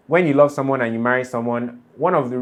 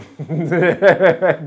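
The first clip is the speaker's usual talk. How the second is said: higher, tickled burst of laughter; real laughter; 5 semitones higher, 4 dB louder than usual. Real, not acted. Podcaster tickled by the pounded yam line, real laughter. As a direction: laugh out loud, helplessly amused. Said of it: "more than I'm laughing right now".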